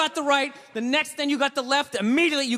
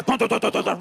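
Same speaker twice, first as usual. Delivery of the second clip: imitated running footsteps; 2 semitones lower than usual. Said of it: "runs down the stairs".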